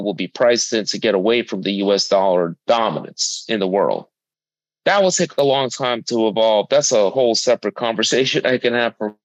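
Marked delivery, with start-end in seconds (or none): 4.8-9.1 choppy dropping audio; breaking up over bad Wi-Fi; buffering stutter. Real, not acted. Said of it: "You're chopping up a little bit there".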